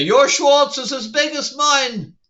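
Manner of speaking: lightly put-on parody villain boast; Dark Helmet. Reviewer joking a parody villain should show up, slow mock boast. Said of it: "have Dark Helmet show up and say".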